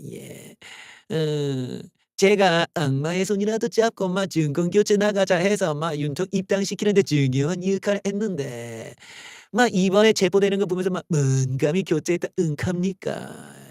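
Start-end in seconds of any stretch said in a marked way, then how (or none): 2.2-13.7 slow, half-hearted Gyeongsang dialect; a hint of Gyeongsang, like an outsider faking it; fake Gyeongsang accent. Imitating Kim Jae-won on Yoon's arrest, in faked Gyeongsang dialect. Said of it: "조선족이 경상도 사투리 하는 것".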